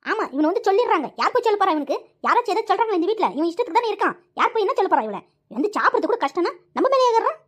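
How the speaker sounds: mildly angry, agitated grumbling; angry complaint. Acted. Mother fed up that nobody corrects her son, angry. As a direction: complain crossly, with some edge. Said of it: "கோவப்படாதம்மா".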